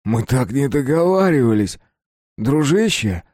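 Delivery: wounded objection, voice climbing; aggrieved protest. A narrator's reading. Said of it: "пробормотал Капустин".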